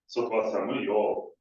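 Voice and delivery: slow, lengthened "Soto wa samuyo" with an emotive end; third contour demo. Shown as a demonstration. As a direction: stretch "Soto wa samuyo" out slowly, asking for sympathy. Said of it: "when we read three, it would be something like".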